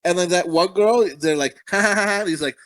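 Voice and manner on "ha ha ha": mock "ha ha ha"; imitated laughter. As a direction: put on a spoken laugh. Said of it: "like, laugh".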